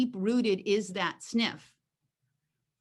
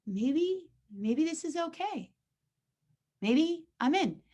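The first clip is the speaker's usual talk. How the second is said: higher, tentative voice; hesitant dog; 7 semitones higher than usual. Acted. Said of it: "the dog goes".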